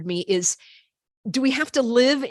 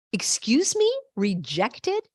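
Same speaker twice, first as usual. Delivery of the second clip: shocked disbelief; 3 semitones higher, slower than usual. Real, not acted. Shocked reaction.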